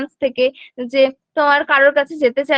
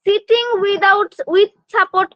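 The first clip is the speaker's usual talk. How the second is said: each word drawn out slowly for notes; slow, deliberate classroom dictation; 4 semitones higher, much slower than usual. Shown as a demonstration. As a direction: spell it out slowly so students can write. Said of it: "teacher dictating a milestone".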